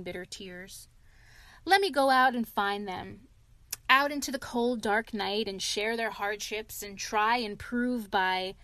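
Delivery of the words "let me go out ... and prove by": louder, pleading declaration; theatrical self-pity, louder; hammed-up remorse. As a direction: overplay the noble sacrifice. Toad's dramatic offer.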